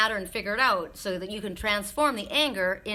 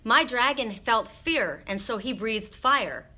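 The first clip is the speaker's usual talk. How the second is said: quoting Spirit; slower than usual. Retold or imitated. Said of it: "Remember what Spirit said to me?".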